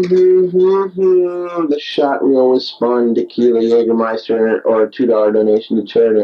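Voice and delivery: reading out own writing; reading aloud. Real, not acted. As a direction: read it like a written text. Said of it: "I'm reading from my writings".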